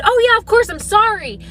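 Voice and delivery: meek apology. Retold or imitated. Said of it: "And I said".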